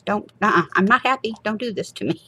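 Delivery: mock distress. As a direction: plead in comic distress. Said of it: "I'm like".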